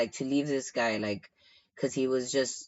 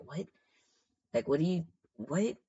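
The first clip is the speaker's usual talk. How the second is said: quiet, questioning "what?" of disbelief; retold disbelief; 3 semitones higher, 3 dB quieter than usual. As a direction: replay your baffled reaction, voice lifting. Recruiter's disbelief at being asked.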